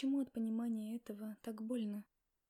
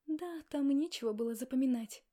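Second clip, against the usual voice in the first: taunting; 3 semitones higher, 8 dB louder than usual. Acted. Heroine taunts Max.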